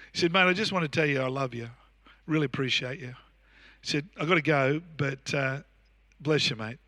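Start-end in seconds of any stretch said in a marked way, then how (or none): 0.3-3.1 lower, softer retold phone words; gently voiced senior pastor, low and easy; warm. Senior pastor phoning to say he loves you, warm. 4.2-6.8 low, soft retold sign-off; quietly voiced pastor ending a call; warm. Senior pastor blessing his mate before hanging up, warm.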